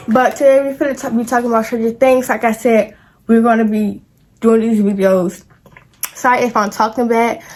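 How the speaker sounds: talking around a retainer; words slurred by a retainer; wearing a retainer. Real, not acted. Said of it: "I got my retainers in".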